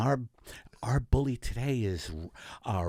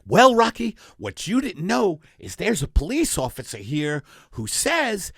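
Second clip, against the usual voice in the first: mock host reveal; 5 semitones higher than usual. Host springs police trap.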